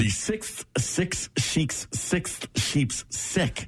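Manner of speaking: slow and soft; very careful slow try; very slow attempt. Shown as a demonstration. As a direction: pick through each word slowly. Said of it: "You try that one".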